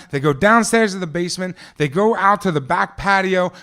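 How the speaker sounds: ordinary talk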